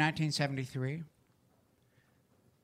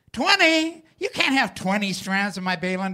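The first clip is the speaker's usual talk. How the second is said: much higher and louder, mock disbelief; shocked dad; 4 semitones higher, 5 dB louder than usual. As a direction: toss it back as if the number is outrageous. Father's shocked reply in story.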